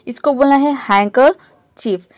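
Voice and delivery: हैंकरचीफ said with no r sound; teacher models हैंकरचीफ without the r; silent r. Shown as a demonstration. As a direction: say हैंकरचीफ as "hankachif", r dropped. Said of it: "इसको र pronounce नहीं करना है".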